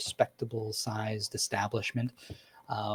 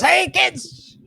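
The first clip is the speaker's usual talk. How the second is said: much higher, louder cheerful call; calling the kids; 10 dB louder, slower than usual. Acted. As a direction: shout for the kids like a happy dad coming home. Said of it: "And he goes".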